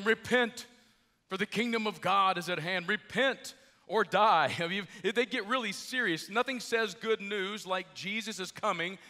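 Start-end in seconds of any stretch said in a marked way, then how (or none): 0.0-4.5 imitating a yelled warning, slowing on the threat; mildly hammed-up doomsday shout; mock street-preacher yell. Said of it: "and they're yelling".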